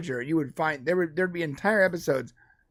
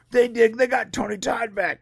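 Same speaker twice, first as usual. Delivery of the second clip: higher-pitched excited exclamation; excited reaction; 7 semitones higher than usual. Retold or imitated. Host retelling spotting a favourite actor, excited. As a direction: replay your own thrill in a raised voice.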